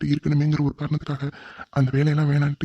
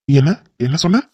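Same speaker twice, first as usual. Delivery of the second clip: louder, sharp what-did-you-say; angry challenge; 6 dB louder than usual. Acted. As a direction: round on him, daring him to repeat it. Boss catches assistant's jibe.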